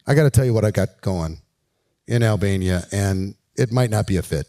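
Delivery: low-pitched, easy confiding approach; acted confiding pitch. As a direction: confide a business idea to new acquaintances. Acts out pitching to strangers.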